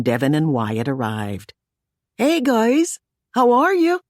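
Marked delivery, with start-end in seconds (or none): 2.2-4.0 lilting Irish. A narrator's reading. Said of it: "in her lilting Irish voice".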